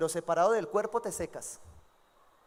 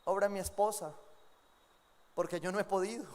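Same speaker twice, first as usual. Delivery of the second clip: quiet confession; 2 semitones lower, 6 dB quieter than usual. Acted. Prayer drops to confession.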